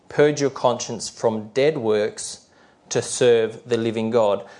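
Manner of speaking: measured scripture reading with deliberate phrasing; unhurried Bible reading, phrase by phrase; slow, clear reading. Real, not acted. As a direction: read the verse slowly and clearly. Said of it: "I'll try to read them slowly and clearly".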